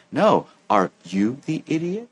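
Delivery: slow, mock-gentle question; unhurried, falsely kind delivery. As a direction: ask it sweetly despite the insult. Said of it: "ask in a gentle tone".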